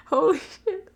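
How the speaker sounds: retold exclamation. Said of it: "maybe I shouldn't have said".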